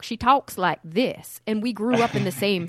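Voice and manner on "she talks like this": slow, louder Southern drawl; sister's Southern accent. Retold or imitated. Imitating their sister's talk, slow Southern accent. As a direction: stretch the vowels into a Southern accent. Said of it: "if you listen to my sister talk".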